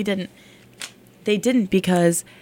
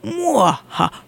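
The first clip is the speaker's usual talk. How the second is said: evil laugh; 2 semitones higher than usual. Pretend. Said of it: "evil laughing contest".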